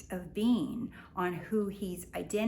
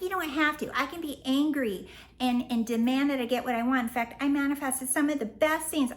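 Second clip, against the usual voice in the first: mocking commenters; 5 semitones higher, 4 dB louder than usual. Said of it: "a lot of people are like".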